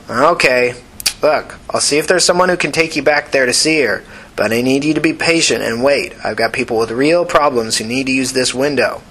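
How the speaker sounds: curt, impatient nurse voice; tired nurse. Acted. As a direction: brush her off firmly. Nurse dismisses Tina.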